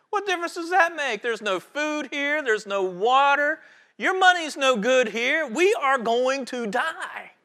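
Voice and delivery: high, loud, dumbfounded protest, slowing on the key words; frantic yelling. Acted. Dumbfounded first man to the second, acted high frantic yelling. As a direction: play a panicked castaway at the end of his rope. Panicked castaway argues, dumbfounded.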